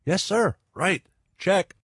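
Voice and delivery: short high-pitched assents; boys agreeing. Acted. Boys give the scientist their promise, high-pitched. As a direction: answer high and a little soft, word by word.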